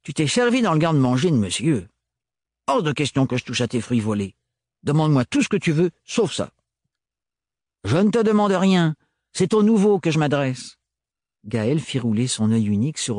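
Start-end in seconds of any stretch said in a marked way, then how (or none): 0.0-6.5 put-on gruff old man refusing, a bit higher; flat refusal, faster at the end; stubborn Renard. Narrator voices Renard. 7.8-10.8 put-on higher, louder, dismissive young mechanic; curt Gaëlle. Narrator voices Gaëlle.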